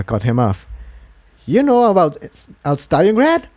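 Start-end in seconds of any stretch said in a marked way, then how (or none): 1.5-3.4 higher, sudden cut-in; startled Incendia. A narrator's reading. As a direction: jump in surprised before Jigsaw speaks.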